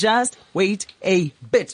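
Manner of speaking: slow, drawn-out, building preacher voice. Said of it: "I'm gonna preach right now".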